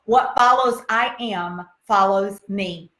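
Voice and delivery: slow, weighty repeat of the maxim; slow motto. Shown as a demonstration. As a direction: press the motto home slowly. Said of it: "That's right".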